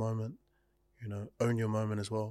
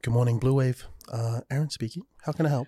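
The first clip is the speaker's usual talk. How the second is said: fake Karen voice; 5 dB louder than usual. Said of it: "I have a very good fake Karen voice".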